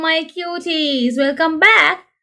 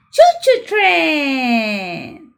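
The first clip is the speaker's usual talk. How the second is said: slow shout; much slower than usual. Pretend. Story's closing train call.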